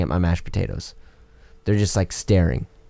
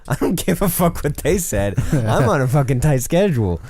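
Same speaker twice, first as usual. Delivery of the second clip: rude rant; 5 semitones higher than usual. Retold or imitated. Pest guy ranting at late customer, angry mock rant. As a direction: play a rude worker blowing up.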